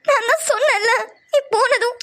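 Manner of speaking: crying while reproaching; tearful scolding. Acted. To Sham who never called her, tearful reproach. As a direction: scold him as tears break through.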